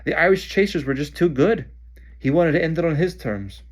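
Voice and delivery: loud shout over noise. Acted. Harry shouting back to Ron over the noise. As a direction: explain it over the din. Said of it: "Harry shouted back".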